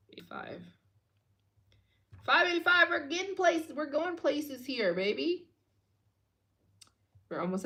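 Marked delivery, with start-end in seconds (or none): 0.1-0.6 whispered number. Real, not acted. Total read under breath. 2.2-5.5 excited cheer. Real, not acted. Cheering donation total.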